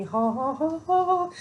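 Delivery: light mock fairy laugh, rising in pitch; airy sparkly-witch laugh. Reader imitating Glenda the Good Witch's energy, climbing sparkly laugh.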